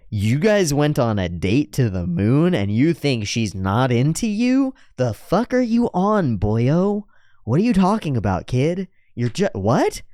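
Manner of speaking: a big guy who can't believe what he hears; incredulous Maine. Retold or imitated. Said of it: "Maine is like".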